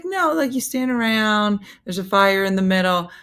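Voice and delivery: high-pitched voice for the lady; high mock explaining voice; imitated insistent lady. Retold lady insisting on her explanation.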